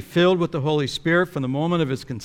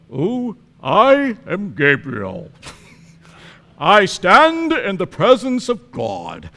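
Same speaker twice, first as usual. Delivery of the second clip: meek, timid Gabriel; 3 semitones higher, 5 dB louder, slower than usual. Retold or imitated. Preacher mocking a weak Gabriel to Zechariah, limp and dainty. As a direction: say it limply as a joke. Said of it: "He does not go".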